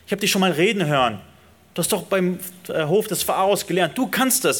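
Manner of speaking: God brushing off the excuses, almost chatty; God casually reassuring Moses, quick and light. Acted. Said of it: "Er sagt ... sagt Gott".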